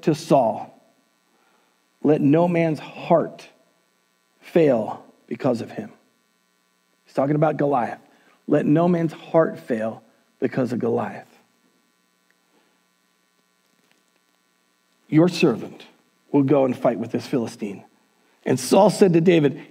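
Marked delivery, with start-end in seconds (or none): 2.0-5.9 calm reassurance. Acted. David calmly reassures Saul. 8.5-17.8 low, quietly resolute pledge; acted calm courage before a king; calm reassurance. David calmly reassures Saul.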